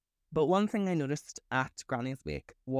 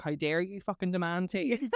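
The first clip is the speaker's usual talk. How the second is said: mock outrage; 6 semitones higher than usual. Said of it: "I was ready to pounce".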